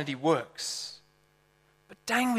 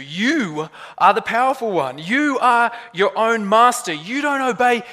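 tempting lie's voice; 5 semitones higher, 5 dB louder than usual. Acted. Preacher voices the lie we bought into, seductively insistent. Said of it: "it hisses into our ears".

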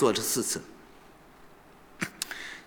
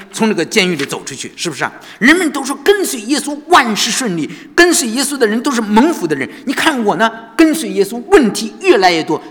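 raised, louder desperate cry to God; retold angry outcry; 4 semitones higher, 3 dB louder than usual. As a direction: pour out despair, pitched up and loud. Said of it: "就在里头发火了".

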